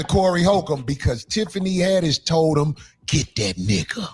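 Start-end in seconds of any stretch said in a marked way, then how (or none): 3.1-4.1 mock quote. Quoting Tiffany's order.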